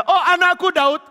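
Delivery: high, loud gushing holler; hammed-up doting cry; feigned affection. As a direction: pour out false fatherly love. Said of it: "Mulutnya begitu pura-pura".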